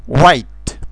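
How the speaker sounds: "white" starting with a rounded u-like w; English w sound. Shown as a demonstration. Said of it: "sunetului U". ("white" cu w ca un u scurt)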